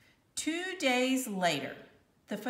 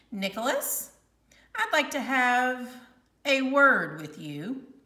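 word pressed louder; stress on word; 3 semitones higher, 5 dB louder than usual. A narrator's reading. Teacher warning Nick, louder on "word". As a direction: lean on the word "word". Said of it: "she emphasized the word word".

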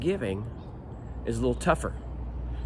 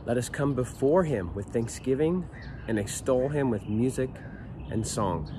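scripture reading. Acted. Reads the psalm aloud.

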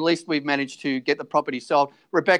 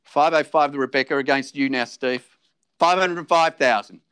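auctioneer calling. Acted.

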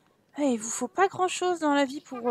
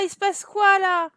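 il se passe quoi là? said higher, louder, in disbelief; surprised; 5 semitones higher, 3 dB louder than usual. Real, not acted. Seeing the game glitch, il se passe quoi là? amazed. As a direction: ask il se passe quoi là? as if stunned.

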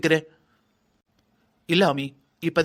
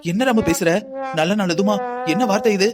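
shocked at the very words; alarmed reproach. Acted. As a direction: recoil and chide, a touch agitated. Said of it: "சொன்னதுக்கே பதறீங்க". (பதறிப்போய் கண்டிக்கும் குரல்)

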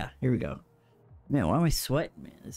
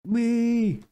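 gleeful wee; 7 semitones higher, 4 dB louder than usual. Real, not acted. Fun cheer.

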